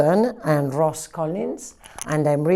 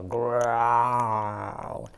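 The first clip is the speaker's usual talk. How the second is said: mock growl; 7 semitones lower, 6 dB quieter than usual. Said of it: "I growl like an owl".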